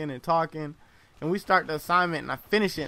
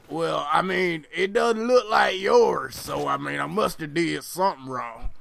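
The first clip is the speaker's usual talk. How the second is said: imitating a puzzled country classmate; amateur country accent, dragging the protest out; 4 dB louder than usual. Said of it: "please don't mind my country accent".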